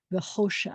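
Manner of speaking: V'choshech with a soft throaty ch, drawn out; choshech. Shown as a demonstration. Teacher sounding out V'choshech for the class. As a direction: breathe the ch in V'choshech like a purr. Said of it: "Now I want you to hear v'choshech".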